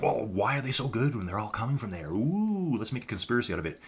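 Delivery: gently mock people stirring up a conspiracy; mock conspiracy theorists. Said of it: "some people are like".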